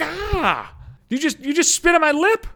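high-pitched mock outraged yell; outraged shouting. Woman recoiling after he spit on her lip, mock outraged shout. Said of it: "maybe don't shout it".

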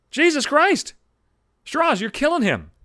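loud, high exasperated cry; fed up with a coworker's drama, loud and high; exasperated outburst. Real, not acted. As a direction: throw it up to the heavens.

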